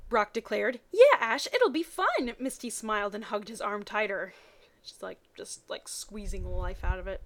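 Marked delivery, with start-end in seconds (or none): 0.9-2.4 high, loud eager yes; eager agreement. Acted. Brock eagerly inviting himself along, high and loud. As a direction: jump at the plan.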